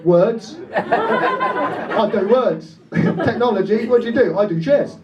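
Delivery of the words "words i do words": mock dim answer. Acting out a crowd member.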